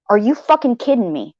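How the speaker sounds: the same question dropped to a falling, deadpan tone; flat disbelief. Retold or imitated. Repeating her thought about Purple's message, a flat falling disbelief. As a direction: repeat it flatly, the anger sinking in. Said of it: "What I was thinking was this".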